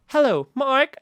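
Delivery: imitated supervisor's accent, only slipping out; polished greeting with a trace of accent; mock professional accent, H pronounced; slight professional accent. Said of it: "professional accent where you just hear it, uh, uh, very occasionally".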